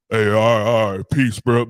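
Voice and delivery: hammed-up masculine bye; mock macho goodbye. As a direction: bark it out like a hard dude. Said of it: "all that masculine shit like".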